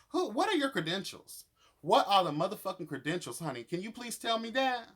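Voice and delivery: indignant demand. Real, not acted. Vlogger ranting at Corday over his credentials, outraged high demand. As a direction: fire questions at him, outraged. Ranting at reality show contestant.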